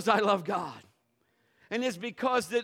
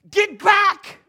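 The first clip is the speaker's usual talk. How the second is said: loud barked command; imitating a loud "get back"; retold shout; 12 semitones higher, 15 dB louder than usual. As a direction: shout it like the angry man. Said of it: "I'm not exaggerating".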